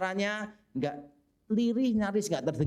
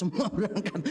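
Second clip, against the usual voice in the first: laughing. Real, not acted. Laughing at repeated joke.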